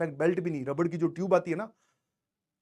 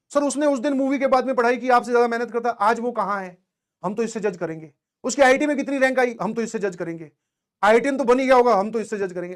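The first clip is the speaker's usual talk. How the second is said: mock student challenge, higher and louder in bursts; imitating judgmental students; 4 semitones higher, 6 dB louder than usual. Teacher parrots students who judge by rank, mock challenge. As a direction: press the point like a doubting student, mockingly. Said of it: "मुझे पता है तुम्हारी mentality क्या है, तुम क्या सोचते हो".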